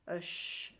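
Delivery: sh breathed out with no voice; teacher showing the rest sound; whispered sh. Shown as a demonstration. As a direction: say sh as a hushing breath. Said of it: "that's a sh".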